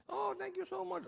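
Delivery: high-pitched little snake thanks; grateful snake. Acted. Snake to the addict who saved it, high grateful voice.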